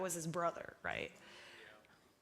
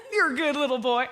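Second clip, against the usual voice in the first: laughing John Crowder impression; 3 semitones higher, 6 dB louder than usual. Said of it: "how does he even talk".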